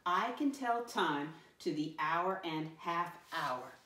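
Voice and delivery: slow, evenly paced group reading; read-along. Shown as a demonstration. Teacher reads the statement with pupils, slow read-along. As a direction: read slowly so everyone can join in.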